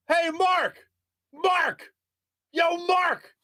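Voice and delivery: very high, drawn-out mock holler; imitated yelling. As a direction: imitate someone bellowing a name from close by. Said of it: "But he's yelling it".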